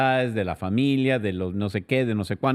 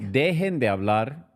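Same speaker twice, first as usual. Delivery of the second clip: slow commanding order, a bit higher; bossy order; 4 semitones higher, slower than usual. Retold or imitated. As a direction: give the order slowly. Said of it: "Nos ordenó". (orden mandona y lenta)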